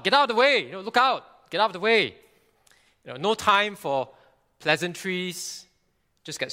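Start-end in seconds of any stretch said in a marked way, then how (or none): 0.0-2.1 high, loud warning yell; urgent shout. Pretend. Preacher shouting a warning at a child in the road. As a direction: shout it like a bus is coming. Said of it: "You will shout at the child".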